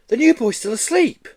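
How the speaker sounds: high, loud gleeful tattle. Acted. Girl to classmates, high and gleeful. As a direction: delight in his trouble. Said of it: "said a tall girl gleefully".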